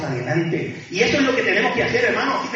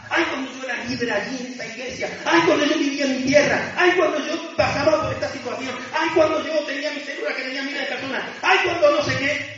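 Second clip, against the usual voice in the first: higher-pitched litany of lost glories; mock nostalgia; 6 semitones higher than usual. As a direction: parody someone pining for the old days. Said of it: "Nos vamos al pasado". (nostalgia quejumbrosa fingida)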